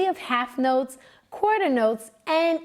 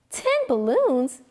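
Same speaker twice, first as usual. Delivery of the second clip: mother's question; 4 semitones higher, slower than usual. A narrator's reading. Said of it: "asked his mother".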